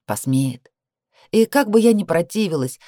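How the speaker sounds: plain reading voice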